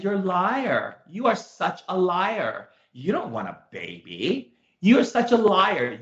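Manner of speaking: slow, drawn-out accusing retort; mock accusation. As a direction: stretch out the accusation as if confronting a client. Retold confrontation with his client.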